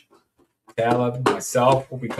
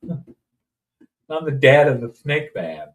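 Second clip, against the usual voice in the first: mock announcement; 4 dB louder, much slower than usual. Mock dramatic self-announcement.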